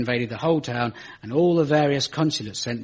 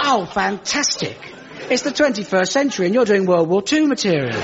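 mock delighted, pitched up; lightly sarcastic thought; 6 semitones higher than usual. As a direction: gush with ironic glee at the joke. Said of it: "And I thought".

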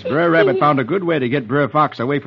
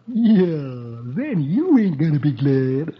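sly fox muttering to himself, slow; a scheming fox aside; Brer Fox; slower than usual. Acted. Brer Fox voiced in story.

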